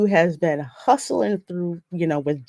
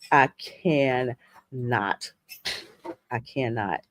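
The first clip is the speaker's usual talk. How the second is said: slow exasperation; 7 semitones lower, 5 dB quieter, much slower than usual. Real, not acted. Exasperated at a singer's voice.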